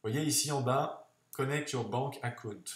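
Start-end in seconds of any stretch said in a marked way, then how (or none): 1.3-2.6 English read with a strong French accent. Real, not acted. Tutor reads an on-screen button to viewers, French-accented English. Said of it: "j'ai un super accent anglais".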